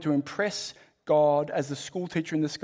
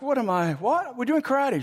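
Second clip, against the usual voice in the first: put-on rising, incredulous teen protest; indignant Daniel; 5 semitones higher than usual. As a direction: balk at the chore like a fed-up student. Daniel protests to his coach.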